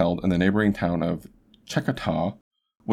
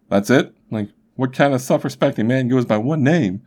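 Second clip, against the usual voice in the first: incredulous mock scoff; 5 semitones higher than usual. Imagined Jones mocking one name.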